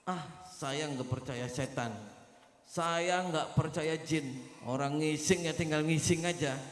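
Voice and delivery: put-on a lazy, dismissive drunk who fears nothing; defiant drunk man. Drunk man defying the ghost warning.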